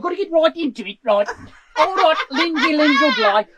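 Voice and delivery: laughing, badly slipping regional rocker impression; a glam rock singer. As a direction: gear up like a comic rock frontman. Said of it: "in the style of a rock singer".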